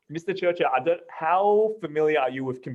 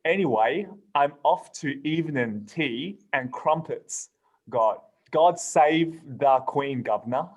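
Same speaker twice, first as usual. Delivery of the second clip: mock British accent; slower than usual. Reading a British meme to friends in a mock British accent. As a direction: lay on a stiff British accent for laughs. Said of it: "I'll try, I'll try it".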